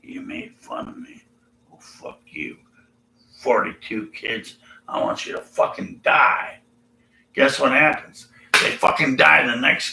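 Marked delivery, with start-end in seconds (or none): 0.0-6.6 put-on 1 crotchety old prophet. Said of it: "old crotchety old man with a bald head".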